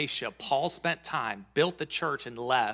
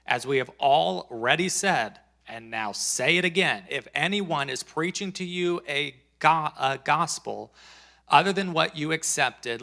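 preacher reading an epistle aloud; measured, emphatic Bible reading; emphatic scripture reading. Acted. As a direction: read it out firmly, leaning on key words. Reads Paul's letter to congregation.

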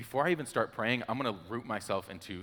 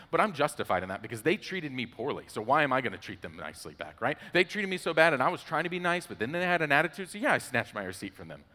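self-justifying huff; 4 semitones higher than usual. Retold or imitated. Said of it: "'cause I'm like".

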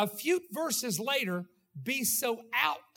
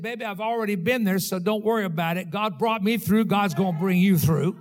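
comforting elder; 7 dB louder than usual. Retold or imitated. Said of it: "somebody that said".

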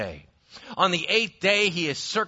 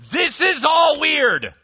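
emphatic shout; 9 semitones higher, 6 dB louder, slower than usual. Real, not acted. Preacher telling the congregation it's weird, shouting. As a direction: shout it high and slow, insisting. Preacher stressing strangeness of events.

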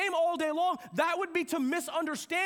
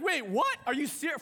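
playfully incredulous; freaking out. Acted. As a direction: act out a startled reaction. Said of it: "I'd be freaking out".

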